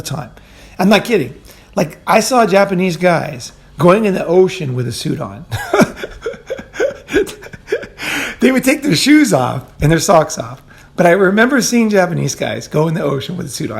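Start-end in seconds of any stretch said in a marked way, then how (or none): 5.5-8.4 high-pitched laughing fit; amused laugh. Real, not acted. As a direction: laugh helplessly at an absurd memory. Laughing at suits in the ocean.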